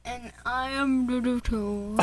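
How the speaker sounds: mock garbled mouthful of seltzer; mouth full. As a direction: fake talking with a full mouth. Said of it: "my impression of me having seltzer in my mouth".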